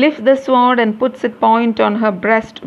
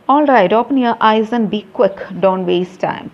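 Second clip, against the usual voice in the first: loud, brisk divine command; bossy goddess hurrying her; impatient goddess; 2 semitones higher, 4 dB louder than usual. Acted.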